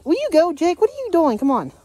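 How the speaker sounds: high sharp call to the dog. Real, not acted. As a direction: yell at the misbehaving dog. Yelling at the dog.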